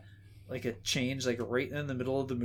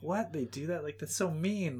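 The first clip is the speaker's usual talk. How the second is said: mildly incredulous, higher pitch; retold dismay; 4 semitones higher than usual. Moviegoer who missed the screening, mildly dismayed. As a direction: protest in mock disbelief.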